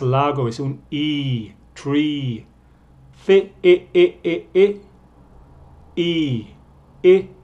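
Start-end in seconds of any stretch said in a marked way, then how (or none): 3.1-4.8 Fi, i said loud and high, vowel repeated; vowel drill. Shown as a demonstration. Teacher repeating the vowel for learners, emphatic. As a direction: hammer the vowel. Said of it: "con énfasis en el vocal".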